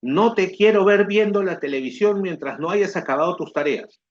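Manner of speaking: a mother laying down the rule; stern mother. Retold or imitated. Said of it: "Ella me dice". (madre estricta que da una orden, con voz más aguda)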